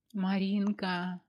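slow, dry-lipped, hesitant call. Acted. Anya to her friend Marinka, slow and dry-lipped. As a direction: drag the name out through parched lips. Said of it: "пересохшими губами вдруг проговорила Аня".

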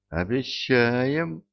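high, slow, timid promise; frightened babble. A narrator's reading. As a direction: squeak it out in fear. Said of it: "пролепетал консул".

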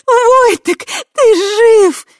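very high, loud sobbing cry. A narrator's reading. Tai weeping with relief over Voytek. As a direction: sob his name with relief. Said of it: "прорыдала Тай".

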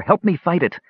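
high, strained appeal; gasping plea. A narrator's reading. Palin pleading with his brother, gasping. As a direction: beg for help in a gasp. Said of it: "Palin gasped".

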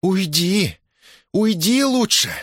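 high, firm repeated order; insist, not backing down; Дашутка stubbornly pushing the merchant out; stubborn insistence. Acted. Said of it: "упрямо твердила".

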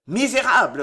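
roared. Acted. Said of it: "rugirent les gentilshommes".

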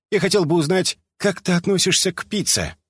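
high, smiling cheerful question. A narrator's reading. Delta asks Omega about pizza, smiling and high-pitched. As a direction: ask brightly through a smile. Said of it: "улыбаясь, загнул Дельта указательный палец".

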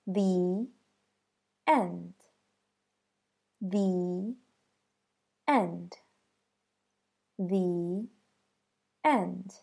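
"The end" with "The" said as "thee"; thee before a vowel. Shown as a demonstration. Teacher modeling the phrase three times, "The" as thee. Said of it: "and that should sound like this".

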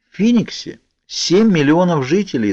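high-pitched, ready answer; eager. A narrator's reading. Girl answering doubts about her plan, eager. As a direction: offer it readily, pitch well up. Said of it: "с готовностью сообщила я".

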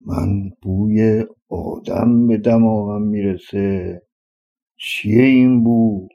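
slow, lightly voiced giant sniffing the air. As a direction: drag the words out like a suspicious giant sniffing. Giant sniffs, smells a human. (غول مشکوک، آهسته و کشیده)

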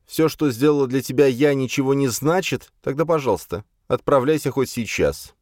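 high, rising bitter tirade; angry reproach. A narrator's reading. Jocasta to Virgil, bitterly reproaching his ingratitude. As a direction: pour out the hurt at him.

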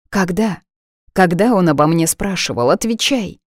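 pressing, rising urgency; urgent demand. Acted. Heroine presses her friend for answers, urgent.

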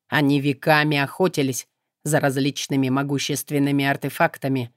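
low, calm, detached voice; indifferent demon. Acted.

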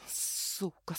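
«Сука» почти беззвучным шёпотом сквозь стиснутые зубы; прошипи «Сука» еле слышно, тише обычного; бормоча сквозь зубы. A narrator's reading. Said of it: "скрипя зубами, забормотала я". («Сука» — злой шёпот сквозь зубы)

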